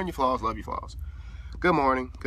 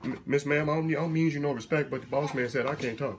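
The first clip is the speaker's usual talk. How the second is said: hesitant, lightly voiced Southern servant; meek subservient servant; 3 semitones higher, 3 dB quieter than usual. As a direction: stammer a deferential excuse. Meek servant answers child.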